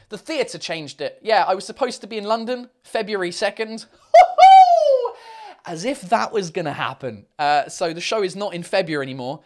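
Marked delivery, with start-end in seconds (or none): 4.1-5.6 long, very high, loud hoot; mocking high whoop. Real, not acted. Streamer scoffing at the February show date, mocking whoop. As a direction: hoot at an absurd idea.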